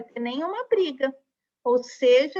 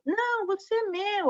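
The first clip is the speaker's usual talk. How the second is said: 1 vogal puxando; 8 semitones higher than usual. Acted. Vowels tugging at the S.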